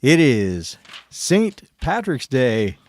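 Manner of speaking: big bright Irish hello; Irish accent. Acted. Irish greeting on St Patrick's Day.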